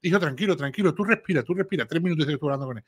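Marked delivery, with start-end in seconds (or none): 0.0-1.8 soft, soothing hush; mock calm father. Podcaster imitating the father soothing his son, softly. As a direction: settle him down gently, half mocking. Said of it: "lo único que le dices".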